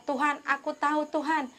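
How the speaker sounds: an earnest, insistent retold prayer; prayerful crying out. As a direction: call on God earnestly, retelling a prayer. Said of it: "aku berdoa berseru sama dia".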